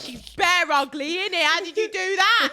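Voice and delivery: slow, loud laddish mockery, laughing at the end; imitating a brash lad; loud Essex lad. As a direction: boom it out like a rowdy lad. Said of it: "That's the".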